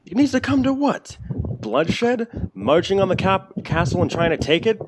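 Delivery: high, loud clipped exchange; two rivals facing off; heated argument. Acted. Nina and Alexander argue.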